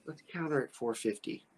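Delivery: soft, composed retold reply; calm. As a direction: quote him calmly, lowering the volume. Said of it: "but he calmly goes".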